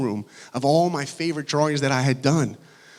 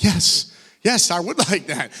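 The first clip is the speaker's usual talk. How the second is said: eager acceptance; 4 semitones higher, 4 dB louder than usual. Retold or imitated. Acts out his thrilled answer.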